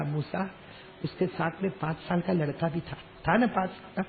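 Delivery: soft, loving and tender; gently, like a loving parent explaining; lovingly. Acted. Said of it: "اللہ نے اتنے پیار سے کہا". (پیار سے، نرمی سے)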